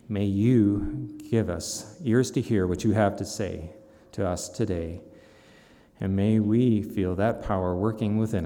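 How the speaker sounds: earnest pulpit prayer, opening strong then settling; closing prayer. Real, not acted. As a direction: pray over the congregation sincerely. Pastor leads closing prayer.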